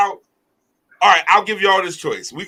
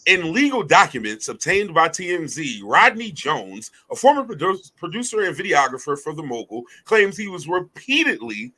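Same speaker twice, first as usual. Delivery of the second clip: narrator voice. Acted. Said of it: "my narrator voice".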